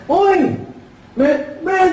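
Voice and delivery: high, punchy mock greeting; son greeting a buddy. Son spotting the fellow customer, excited greeting. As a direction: call out high to your pal. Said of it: "Pagpunta ng anak ng ngongo".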